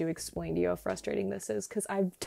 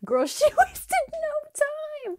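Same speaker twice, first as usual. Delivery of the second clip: sassy disbelief; 5 dB louder, much slower than usual. Real, not acted. Francine already packing.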